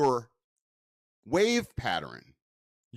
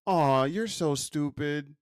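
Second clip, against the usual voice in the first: soft kind tone. Shown as a demonstration. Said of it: "I don't know if this is a good demonstration".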